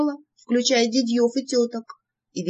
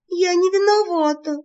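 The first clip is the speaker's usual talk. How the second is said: высокий пронзительный оправдывающийся голос; заверещи, оправдываясь; заверещав; 9 semitones higher than usual. A narrator's reading. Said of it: "заверещала я". (высоко верещит, оправдываясь)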